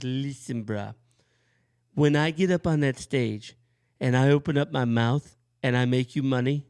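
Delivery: a hint of a smug singer; lightly voiced smug rock singer; rock singer impression. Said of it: "rock singer impersonations".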